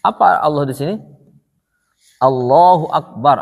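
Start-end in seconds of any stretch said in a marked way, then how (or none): 2.2-3.4 Allahu Akbar spoken slowly and a bit louder; Arabic reading demo. Shown as a demonstration. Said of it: "Apa artinya?".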